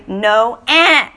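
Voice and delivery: exaggerated fussy mock refusal; mimicked whine. Shown as a demonstration. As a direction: whine it back at the kid. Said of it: "Do it back".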